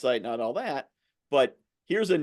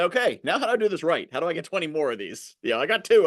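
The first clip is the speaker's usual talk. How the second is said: eager client; 5 semitones higher than usual. Retold or imitated. Voices an eager new client.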